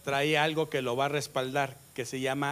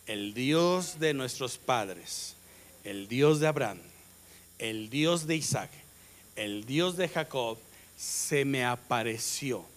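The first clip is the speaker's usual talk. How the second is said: solemn divine words; 4 semitones lower, slower than usual. Acted. Quoted divine words, slow.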